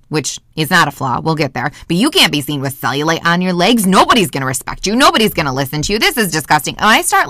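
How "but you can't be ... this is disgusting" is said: self-scolding that speeds up; unraveling inner critic. Acted. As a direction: pile up the criticisms, faster and faster. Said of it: "unraveling down that road".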